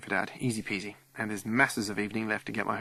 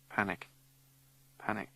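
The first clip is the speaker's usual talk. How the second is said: 1 hushed panic; 9 dB quieter than usual. Acted. Repeated word fading.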